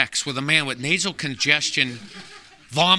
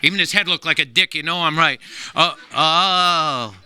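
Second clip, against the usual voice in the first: alien voice; 2 semitones lower, much slower than usual. Retold or imitated. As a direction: croak it like the movie alien. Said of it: "He was going".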